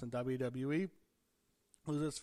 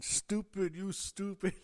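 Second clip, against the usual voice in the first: mock Latino accent, pitched up and louder; thick Latino accent; 7 semitones higher, 6 dB louder, slower than usual. Retelling a wrestler yelling at Braun, mock Latino accent. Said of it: "in a very thick Latino accent".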